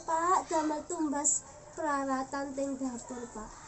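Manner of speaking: soft, slow, polite Javanese pleading; refined, sincere. Shown as a demonstration. Wife telling husband the kitchen is empty, gentle and sincere. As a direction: explain gently and humbly, softening each phrase end. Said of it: "bicaranya dengan halus, tulus".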